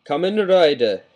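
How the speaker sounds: high, loud Japanese-accented hero call; hammed-up Japanese announcing cry; Kamen Rider impersonation. Shown as a demonstration. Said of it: "a pretty good Kamen Rider".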